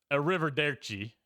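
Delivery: put-on hammy Italian accent. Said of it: "that entire accent".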